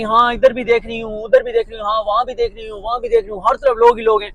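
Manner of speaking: mock a speaker pointing out crowds everywhere; Maryam Nawaz. Vlogger mimicking a politician gesturing to the crowd, lightly mocking impression. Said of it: "और इशारा कर रही".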